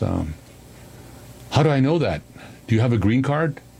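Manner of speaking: put-on grave, slow, serious, no-nonsense tone. Retelling what a van driver asked after cutting them off: serious tone. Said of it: "in a serious tone".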